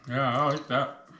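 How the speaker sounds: talking through a mouthful of chips; chewing while talking; mouth full. Real, not acted. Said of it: "talking with my mouth full".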